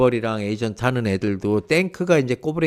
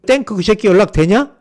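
snapping, retold; 7 semitones higher, 7 dB louder than usual. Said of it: "막 쏴붙이는 거야".

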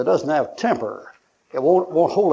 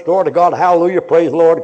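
mock church praise; 3 semitones higher, 7 dB louder than usual. Mimicking church-door piety.

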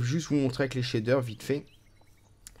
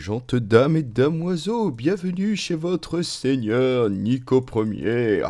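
grand herald's proclamation, slow and drawn out; stretched-out medieval crier voice; town crier; slower than usual. Acted. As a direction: proclaim a welcome like a feudal lord's herald. Herald-style intro as the lord.

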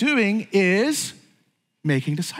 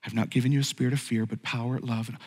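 voice of God; 8 semitones lower, 7 dB quieter than usual. Acted. God's reassuring answer voiced.

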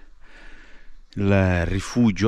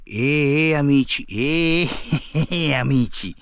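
excited calling; 5 semitones higher, much slower than usual. Real, not acted. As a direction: call out to friends, getting excited.

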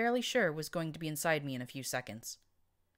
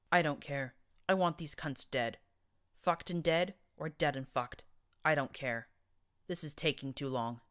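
almost in pain. Acted. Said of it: "he said, almost in pain".

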